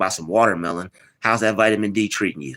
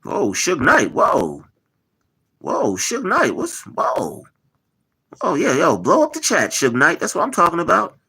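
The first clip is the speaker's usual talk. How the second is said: hyped shout-out; 8 semitones higher than usual. Real, not acted. Hyped greeting a chat donor.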